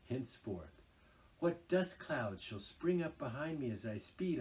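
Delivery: high, loud, dreamy boasting toad; rapturous Toad. A narrator's reading. Toad dreams aloud of reckless driving. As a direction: swept up in grand visions.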